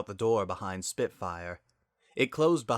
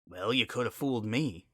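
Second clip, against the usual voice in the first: bitter. Acted. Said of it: "Spitfire said bitterly".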